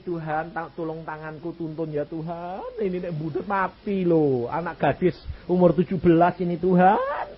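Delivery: high, pleading cry to God; desperate retold prayer; frantic prayer. Desperate prayer during surgery.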